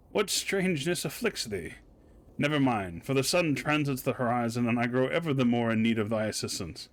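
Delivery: lightly voiced old-fashioned formal lodger; reading archaic lines with mild ceremony; archaic speech. Landlord demanding a signature in a light archaic voice. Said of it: "When did you start talking like this?".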